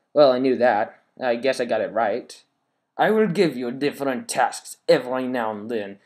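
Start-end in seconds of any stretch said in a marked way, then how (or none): 3.0-6.0 mock French baddie accent; evil French accent. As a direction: read it as a sneering French villain. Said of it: "I'm gonna read it in a French accent".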